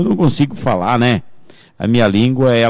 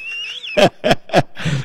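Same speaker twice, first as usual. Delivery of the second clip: high wheezy giggling fit; laughter; 5 dB quieter than usual. Real, not acted. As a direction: crack up at your own joke. Laughs at his own joke. (risada aguda e solta)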